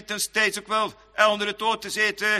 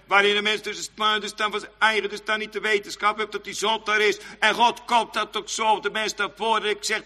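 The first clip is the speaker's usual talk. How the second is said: ordinary talk, nothing marked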